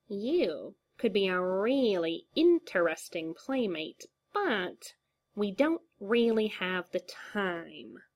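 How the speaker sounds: slow swooping menacing purr; lingering creepy clown taunt; menacing Joker drawl. Acted. Joker taunting, hand on throat.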